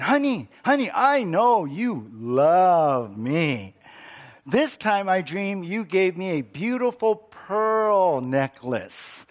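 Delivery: lightly voiced wife, pleading and slow; eager wife. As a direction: coax the husband, half-awake.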